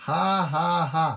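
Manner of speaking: ha-ha for the people to imitate; leading the congregation in a demo laugh; laugh to copy. Shown as a demonstration. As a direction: show them how to laugh. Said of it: "gayahin niyo ako".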